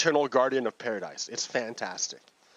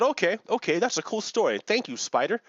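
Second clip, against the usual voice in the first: Buddha; 7 semitones higher than usual. Acted. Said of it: "Buddha listened to the story and said".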